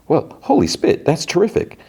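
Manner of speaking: high-pitched, put-on congratulation; mock delight. Older actor reacts to rival's big audition, put-on delight.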